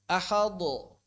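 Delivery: ahadu with a heavy rounded "do" ending; ahadu, final d released thick; thickened dal. Shown as a demonstration. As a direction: show the mistake of thickening ahadu. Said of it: "Itu kadang-kadang jadi tebal".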